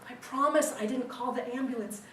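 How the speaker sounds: hint of a mock British accent; British woman. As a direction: lightly imitate the British lady explaining herself. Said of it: "it's the British lady".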